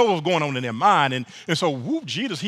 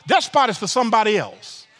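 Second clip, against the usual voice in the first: higher, sassy host voice putting a guest down; mock host dismissal; 3 semitones higher than usual. Preacher voicing a host telling a guest to move, sassy and higher. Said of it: "the host might say to you".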